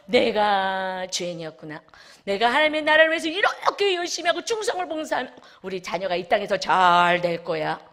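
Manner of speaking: emphatic inner voice. Retold or imitated. Preacher voices a believer's old thinking, emphatic. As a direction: proclaim it like a realisation.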